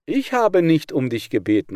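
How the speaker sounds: loud protest, stress on habe; frog calling out. Acted. A frog protesting loudly to the snake. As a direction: cry it out in protest. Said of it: "rief einer von den Fröschen".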